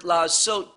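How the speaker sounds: "la'asot" said as a clear Hebrew word. Shown as a demonstration. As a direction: set "la'asot" apart in Hebrew. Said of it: "the word".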